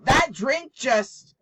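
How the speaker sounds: loud, high, shaken exclaim; startled and shaken. Real, not acted. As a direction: still rattled from the shock. Startled by flying drink.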